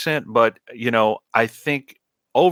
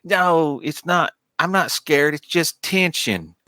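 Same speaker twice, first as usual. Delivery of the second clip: higher-pitched mock-upset protest; imitated tearful denial; 6 semitones higher than usual. Co-host mimicking the crying captain, put-on defensive upset. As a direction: mimic a captain denying she's crying, lightly acted. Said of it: "there's that scene where she starts crying".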